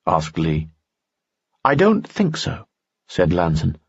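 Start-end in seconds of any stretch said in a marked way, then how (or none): 1.6-2.6 higher, courtly nobleman voice; a charming noble, pitched up; Lanson's voice. Acted. Lanson speaks in story.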